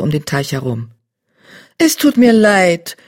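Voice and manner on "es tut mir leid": slow, higher sorry she-cat; gentle she-cat voice. Acted. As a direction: soften it with pity. Bluestar-type starcat voiced.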